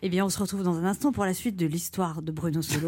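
low sultry radio purr; sensual voice. Acted. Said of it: "Pourquoi tu prends ta voix sensuelle?".

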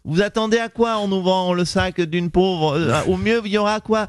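a hint of a snobbish Paris mayor talking down; Anne Hidalgo impression. Mayor answering the radio host, mildly haughty. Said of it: "Bonjour Anne Hidalgo".

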